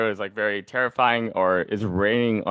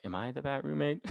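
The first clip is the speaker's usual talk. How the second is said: laughing self-question; 5 semitones higher, 11 dB quieter than usual. Retold or imitated. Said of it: "but then I'm like".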